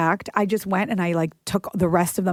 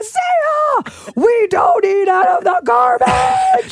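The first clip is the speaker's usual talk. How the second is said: put-on much higher, loud, slow yelling at a child; retold scream; 10 semitones higher, 6 dB louder, much slower than usual. Mom catches daughter eating from trash, re-enacted scream. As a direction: lose it at the kid. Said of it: "I just screamed".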